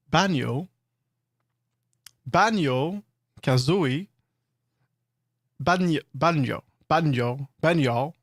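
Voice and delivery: Banjo repeated as bænjo, with pænjo slips; pronunciation practice. Shown as a demonstration. Streamer drilling a name she finds hard. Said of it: "This one is hard".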